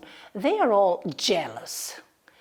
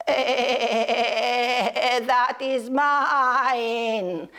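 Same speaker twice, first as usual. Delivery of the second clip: bleating goat; 2 semitones higher, much slower than usual. Acted. Goat claims crown.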